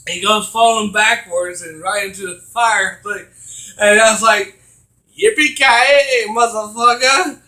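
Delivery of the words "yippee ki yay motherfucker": higher, drawn-out action-hero catchphrase; quoted catchphrase. Retold or imitated. Gamer quoting Die Hard at the scene, drawn-out mock hero call. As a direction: draw out the hero's battle cry, imitated.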